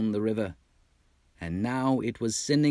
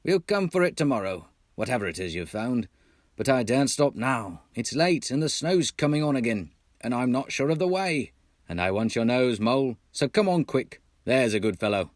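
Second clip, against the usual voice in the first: higher, louder, hurried coaxing; brisk Rat; 4 semitones higher, 3 dB louder than usual. Acted. The Rat urges Mole on through the snow, brisk and coaxing. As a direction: urge him along kindly but firmly.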